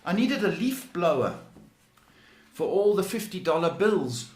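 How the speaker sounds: high, loud, gloating mock celebrity voice; mock rich show-off. Psychic pretending to be the rich caller, gloating mock boast. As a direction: ham it up like a newly rich star bragging.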